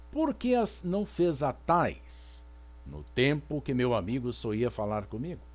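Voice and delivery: teacher reciting a medieval song; poem recitation. Shown as a demonstration. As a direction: read the lament aloud like a poem.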